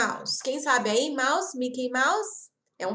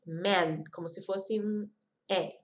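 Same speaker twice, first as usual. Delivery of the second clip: ordinary talk, nothing marked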